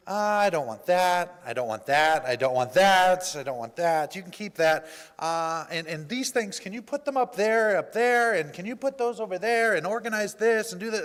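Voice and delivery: imitating a picky woman, emphatic and piling up orders; mock-demanding, each refusal leaned on loudly; retold fussy demands. Woman ordering the food-bank helper around, fussy and demanding.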